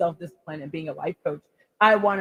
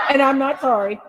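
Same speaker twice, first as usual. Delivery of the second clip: laughing; 7 semitones higher, 4 dB louder than usual. Real, not acted. Laughing defiance.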